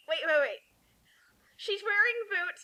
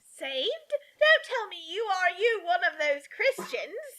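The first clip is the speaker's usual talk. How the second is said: sneering aunt. Acted. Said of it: "I read it wrong".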